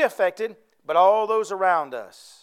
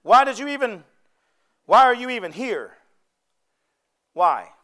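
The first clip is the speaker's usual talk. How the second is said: challenging taunt; 4 dB louder than usual. Retold or imitated. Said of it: "So he says to 'em".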